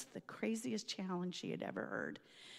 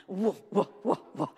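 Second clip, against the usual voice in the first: louder whoa while reenacting; mock exclaim; 4 dB louder than usual. Reenacting the powder cloud exploding, loud whoa. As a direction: call out the powder burst.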